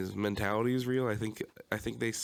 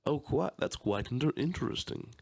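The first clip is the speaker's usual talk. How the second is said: articulate posh voice; 3 semitones higher than usual. Retold or imitated. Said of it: "like, a very articulate".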